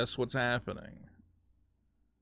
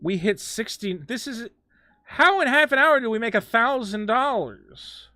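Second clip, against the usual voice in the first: excited disbelief; 4 semitones higher, slower than usual. Real, not acted. Excited recap of donation numbers.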